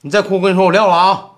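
fed-up ultimatum; exasperated warning. Acted. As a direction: warn the crying caller, pitch climbing. Threatens to hang up on crying caller.

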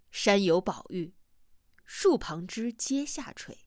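put-on slow, measured quotation of an old text; classical recitation. A narrator's reading. Narrator quotes an ancient prospecting treatise, reciting slowly. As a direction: recite line by line, drawn out.

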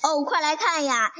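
小女孩兴奋地喊; excited call. Acted. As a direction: call out to come see, mildly thrilled. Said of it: "小女孩喊道".

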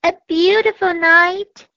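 can't believe the dark is beautiful; wondering. A narrator's reading. Cat and mouse doubting the owl, surprised. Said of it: "wondered the little mouse".

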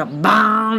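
梆 as a ringing bang; 梆 mimicking a blast; imitated explosion. Shown as a demonstration. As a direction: let 梆 burst out long. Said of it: "是梆的一声".

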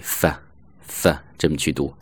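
"f" as a reduced, unstressed syllable; weak form. Shown as a demonstration. Teacher showing learners a weak "for", reduced pronunciation. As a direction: say "f" short with a neutral vowel. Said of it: "弱读的时候经常被读为f".

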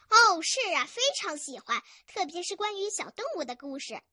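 lightly voiced cheerful boy. Boy tells story grandpa he likes stories, cheerful. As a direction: answer eagerly and openly. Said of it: "小男孩开朗地说".

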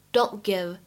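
"don't give" with the t of "don't" held, no burst; unreleased t. Shown as a demonstration. Teacher shows how fast speech changes it, "don't give" with unreleased t. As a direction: run "don't" into "give" without releasing the t. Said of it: "有一个完全失去爆破的现象".

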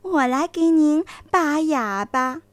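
smiling sweetly. Acted. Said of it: "笑眯眯地说".

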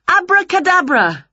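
high, loud magic word; spell casting. A narrator's reading. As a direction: cast it like a cheerful witch.

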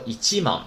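一万 as "ichiman", not bare "man"; full Japanese reading. Shown as a demonstration. Teacher warns students against bare man, full reading of 一万. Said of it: "不能直接说慢了".

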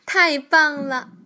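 loud, slow, thrilled cry of wow; excited shout. A narrator's reading. 小青蛙跳跳听说能学飞，兴奋地大声嚷. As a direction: shout it out in pure delight. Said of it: "跳跳兴奋地嚷道".

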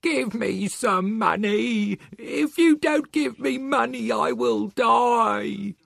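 high, slow, loud pleading; desperate cry; shouting old beggar. Acted. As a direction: drag out the begging. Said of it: "he shouted".

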